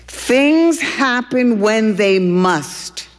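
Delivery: slow, weighty, oracle-like; girl duck solemnly pronouncing to duck; meaningful pronouncement. Acted. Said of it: "as if it were an extremely meaningful statement".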